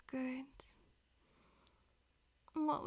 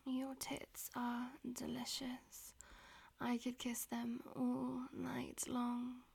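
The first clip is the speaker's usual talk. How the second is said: whispering. Acted. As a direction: whisper it close to the ear. Whispered throughout.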